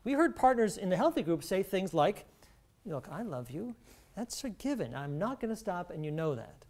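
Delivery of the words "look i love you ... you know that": softer acted partner, sincere and firm; quiet, caring insistence; hard-headed but loving. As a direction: quote a loving partner gently holding the line. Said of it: "some real hard-headed responses".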